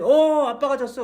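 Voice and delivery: put-on dad hamming up losing to his toddler; exaggerated cry of "아빠가 졌어"; playful dad losing. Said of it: "우리 아들한테 막 씨름한 다음에".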